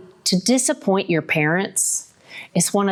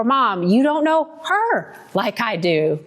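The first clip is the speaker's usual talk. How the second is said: put-on teenage answer; 4 semitones higher than usual. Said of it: "We've all said it".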